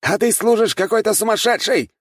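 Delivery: high, loud scornful shout; sneering high battle retort; angry retort. A narrator's reading. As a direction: throw the insult back across the blades. Enemy retorts in sword duel.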